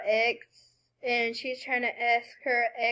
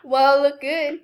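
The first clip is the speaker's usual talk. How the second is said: mocking quote; 4 dB louder than usual. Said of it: "she responded with".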